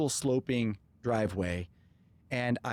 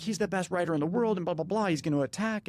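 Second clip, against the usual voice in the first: excited; 6 semitones higher than usual. Retold or imitated. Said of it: "I'm like".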